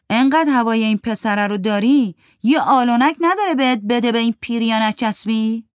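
sneering jab. Acted. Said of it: "فرید پوزخند زد".

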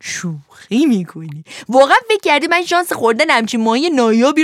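loud, quick mocking brute; mocking fisherman. Fisherman taunting Pinocchio about frying, loud and mocking. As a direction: toy with the helpless puppet.

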